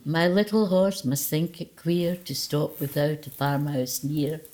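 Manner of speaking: slow, mock-solemn poem recital; hammed-up vicar-style recitation; sing-song poetry voice. Shown as a demonstration. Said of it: "with a wee bit of the poetry voice".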